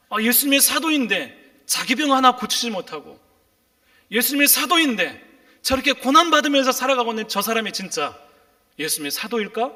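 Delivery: 조롱 imitated. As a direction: imitate scoffers doubting him, pitch lifted. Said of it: "사람들이 조롱하는 거예요". (조롱하듯 높인 목소리로 흉내)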